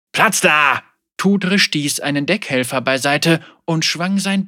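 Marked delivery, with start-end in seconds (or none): 0.1-0.8 an urgent short shout; sharp command. Acted. Captain shoving through the crowd to the boat, sharp command. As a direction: bark to clear the way.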